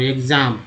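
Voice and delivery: "एग्जाम" with a voiced gz. Shown as a demonstration. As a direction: say the start of "एग्जाम" as "egz". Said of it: "यहाँ पर एक जो उच्चारण हुआ". ("एग्जाम" में "एग्ज" की ध्वनि)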